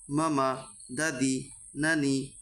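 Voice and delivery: each word read short, without dragging the vowels; brief syllables, a gap after each word; short quick vowels. Shown as a demonstration. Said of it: "আমি উচ্চারণগুলো তাড়াতাড়ি করেছি".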